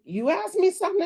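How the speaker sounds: a hint of the puzzled husband; imitating husband. Wife voicing her husband's reply, mild mock voice. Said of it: "He was like".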